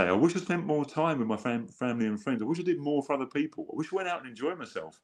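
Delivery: wistful deathbed regret. Retold or imitated. Dying people's regrets voiced.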